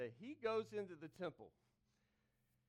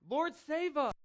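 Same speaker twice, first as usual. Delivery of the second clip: loud plea; 9 semitones higher, 11 dB louder, slower than usual. Shown as a demonstration. Preacher leading congregation in a loud cry. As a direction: Lord punched loud and high, then a falling plea.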